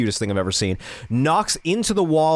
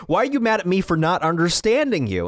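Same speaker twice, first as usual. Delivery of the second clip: bewildered protest, pitch raised; retold exasperation; 6 semitones higher than usual. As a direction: act out baffled pleading with a sleepy partner. Retold bewildered quarrel with sleepy girlfriend.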